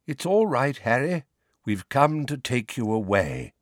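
a slightly hoarse friendly voice. Acted. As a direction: speak with a touch of hoarseness. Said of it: "slightly hoarse voice floated upstairs".

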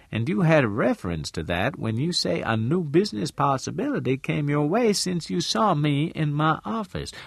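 lightly voiced woman in Southern dialect, deliberate; shrewd businesswoman character. Missus Lane telling Al what she deciphered, lightly knowing.

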